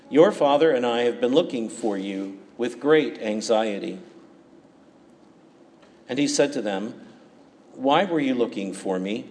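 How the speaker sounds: measured, solemn liturgical reading; Gospel reading. Acted. Proclaims the Gospel at Mass.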